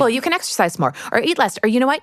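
hurried imitation of pushy advice, piling up; mock sales patter. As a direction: rattle off a relentless list of product pitches. Mimicking consumer marketing messages.

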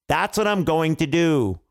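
"going to do" stretched out firmly; insistent repeat. Acted. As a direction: lean on "going to do" for a listener who misheard. King repeats for mishearing bird.

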